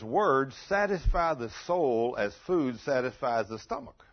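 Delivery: loud, slowish verse reading; emphatic preacher reading a proverb; scripture reading. Real, not acted. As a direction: read the verse out firmly, lifting at the end. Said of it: "it says".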